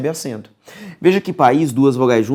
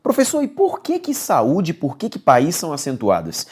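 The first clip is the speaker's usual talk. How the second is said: mock student question; 3 semitones higher than usual. Student asking the professor why words are accented, puzzled and high. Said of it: "Se o cara te pergunta".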